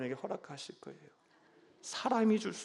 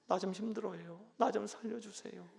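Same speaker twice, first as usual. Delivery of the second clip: soft plea; 9 dB quieter than usual. Shown as a demonstration. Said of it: "하나님께 투정하세요".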